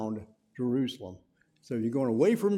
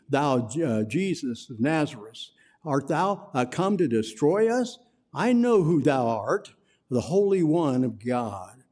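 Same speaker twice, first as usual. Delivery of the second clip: loud cry. Acted. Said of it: "with a loud voice".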